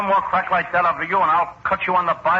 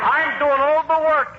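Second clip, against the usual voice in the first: indignant aside; 8 semitones higher, slower than usual. Acted. Comic aside after kiss.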